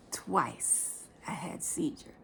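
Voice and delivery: slow, whispered confession; hushed whisper. Real, not acted. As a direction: drop to a grave whisper. Grave admission, voice drops to whisper.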